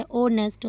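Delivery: ऑनेस्ट said in two parts, ओ then नेस्ट; teacher separating ऑनेस्ट into ओ and नेस्ट; split syllables. Shown as a demonstration. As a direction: break ऑनेस्ट lightly after the first vowel. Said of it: "तो ओ लग, नेस्ट लग".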